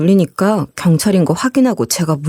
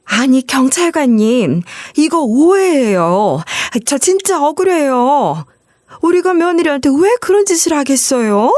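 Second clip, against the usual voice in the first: feigned innocence; 5 semitones higher than usual. Retold or imitated. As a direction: play the falsely accused victim. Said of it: "이런 식으로 거짓말을". (시어머니가 경찰에게 억울한 척 느리게 하소연하기)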